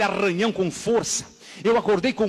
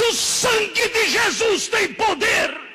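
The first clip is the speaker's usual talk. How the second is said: very high, loud, drawn-out cry; full shout; 5 dB louder, much slower than usual. Retold or imitated. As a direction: shout it out with all your force, stretching it. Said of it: "Eu virei o rosto pro lado e gritei".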